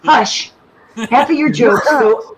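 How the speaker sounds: firm hush, then pressing on; angry. Real, not acted. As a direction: silence them and carry on, irritated. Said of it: "Angry Sandy's here".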